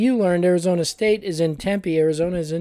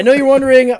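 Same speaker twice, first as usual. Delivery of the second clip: louder, higher host projection; segment announcer; 5 semitones higher, 6 dB louder, faster than usual. Pretend. Host resumes intro over partner's teasing, loud announcer delivery. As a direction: push on loudly with the intro.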